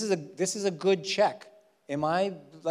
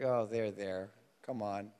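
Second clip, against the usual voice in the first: soothing; 7 semitones lower, 7 dB quieter than usual. Acted. God comforting the whiner.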